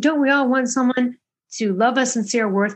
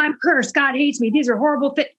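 mock lament; 5 semitones higher than usual. Voices her old self-pitying thought.

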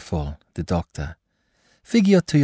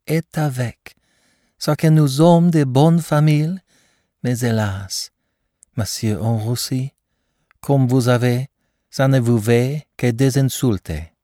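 gushing praise; 7 semitones higher than usual. Acted. Mother gushing about the doctor.

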